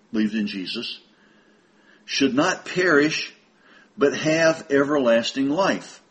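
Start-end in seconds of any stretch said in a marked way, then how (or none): 2.1-6.0 unhurried reading, spaced out by pauses; slow scripture reading. Real, not acted. Preacher finishing the verse for brethren, slowly. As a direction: let each phrase of the verse stand. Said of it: "sometimes it seems like I'm talking too slow".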